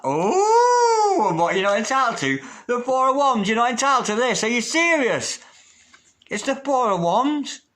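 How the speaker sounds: high-pitched, loud disbelief; incredulous outburst. Real, not acted. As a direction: exclaim as if scandalised on their behalf. Mock disbelief at querent's self-doubt.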